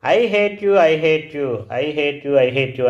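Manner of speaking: child retelling a shout to his mother, mild mock yell; retold shout. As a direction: imitate the bad boy's shout, letting each repeat die away. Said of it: "అని నా మీద గట్టిగా అరిచాడు".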